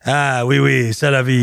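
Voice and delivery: mock French accent. Bantering with co-host in fake French, mock French accent. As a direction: play a jokey Frenchman. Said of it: "I don't do a French accent".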